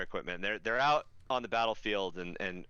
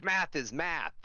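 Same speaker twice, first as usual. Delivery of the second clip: higher-pitched mock-angry insistence; mock outrage, pitched up; mad; 7 semitones higher, slower than usual. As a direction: imitate someone mad, making a point. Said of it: "He's really mad and he's pointing".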